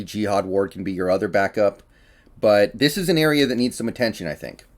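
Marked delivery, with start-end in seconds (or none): 2.4-4.6 winded, catching breath; breathless between words. Real, not acted. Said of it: "I'm a little out of breath right now".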